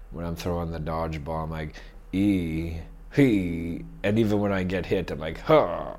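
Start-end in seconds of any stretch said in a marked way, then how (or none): 2.1-3.8 throwing grunt. Retold or imitated. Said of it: "I make noises". 5.4-5.9 grunt when hit. Retold or imitated. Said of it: "I make noises".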